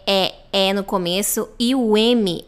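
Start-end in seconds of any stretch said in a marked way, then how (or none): 0.1-0.7 "E" as a short open eh. Shown as a demonstration. Teacher isolating the first sound of M, open eh. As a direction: say "E" as the start of em. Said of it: "Tem esse som de E".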